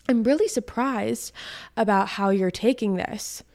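deliberate, spaced-out imitation of his surprise; mock surprise. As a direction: quote him with weighty pauses, imitating surprise. Acting out the ex's reaction.

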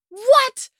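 very high, loud squeal of disbelief; shocked what. Retold or imitated. Shocked by Mother's Day news.

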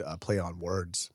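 whispered trailing aside. Real, not acted. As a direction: breathe the words out softly.

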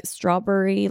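Philly "strawberry" ending in burry; touch of Philly accent; dad's Philly accent. Retold or imitated. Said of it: "my dad says burries".

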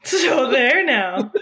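put-on slow, laughing old-fashioned taunt; old-timey tease, laughing. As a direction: drawl it out while laughing. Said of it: "the early nineteen hundreds way of saying".

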